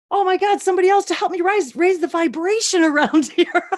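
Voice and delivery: high, thrilled retold outburst; imitating excited server. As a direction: gush it high, breaking into a laugh. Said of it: "how did she say that".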